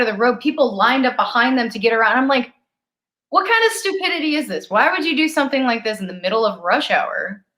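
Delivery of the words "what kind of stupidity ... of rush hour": indignant rant, jumping high at the start; retold exasperation. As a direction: replay your annoyed disbelief. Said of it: "I just got so angry".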